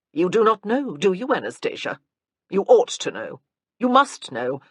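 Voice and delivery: loud, pressing interrogation; a loud, badgering aunt; hectoring aunt. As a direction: fire questions to fluster her. Aunt Matilda interrogates Anna.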